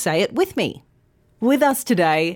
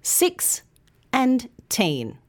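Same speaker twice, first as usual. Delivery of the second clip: put-on "six" and "teen" said apart, one by one; syllables split; 4 semitones higher, slower than usual. Shown as a demonstration. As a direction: separate the syllables clearly. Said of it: "sixteen has two syllables".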